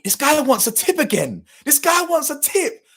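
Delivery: incredulous high-pitched, loud outburst; loud, squeaky disbelief in a retelling; mock outrage. Retells outrage at repeated tip demand.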